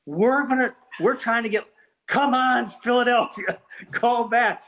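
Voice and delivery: high, eager urging of a far-off caller; excited pleading. Retold or imitated. Coordinator begging Philadelphia to call back, in excited high pleading.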